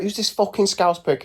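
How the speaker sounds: high-pitched imitated outrage; mock an incensed inmate at the window; put-on angry heckle, pitched right up; going mad. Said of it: "at the window going mad".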